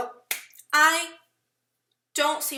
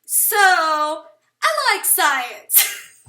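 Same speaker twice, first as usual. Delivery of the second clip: laughing; 4 semitones higher, 11 dB louder, much slower than usual. Real, not acted. Laughing, feeling she is going crazy.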